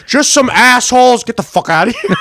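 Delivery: high, loud exasperated outburst; imitating a buddy losing it at work; retold meltdown. Buddy answers his manager about the pranksters, high angry outburst. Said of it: "like, an autistic meltdown".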